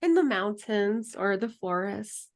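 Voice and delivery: calm, unhurried meditation guide voice; guided meditation. Acted. Guide leading students through closing meditation, calm and unhurried. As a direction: lead the group gently into stillness. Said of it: "end just with the closing meditation".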